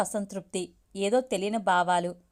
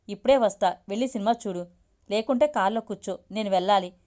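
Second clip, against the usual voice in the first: slightly irritated. Acted. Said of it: "కొంచెం చిరాగ్గానే అన్నా".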